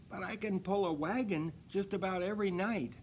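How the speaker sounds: put-on high, eager young reindeer; proud little offer; Dasher's voice. A narrator's reading. Dasher boasting to Santa she can pull, high. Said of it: "she said".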